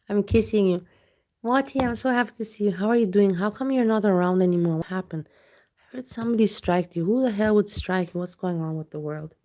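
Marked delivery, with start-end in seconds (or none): 1.4-8.2 louder, fast worried fussing; fussy concern. Real, not acted. Asking Wati what happened, louder worried fussing. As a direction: fuss over a friend.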